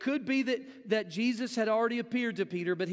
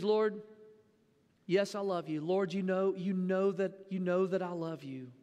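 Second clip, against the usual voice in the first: lower, humble and subdued; 5 semitones lower than usual. Retold or imitated. Peter answering Jesus humbly, lower and subdued. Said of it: "Peter doesn't give that confident tone".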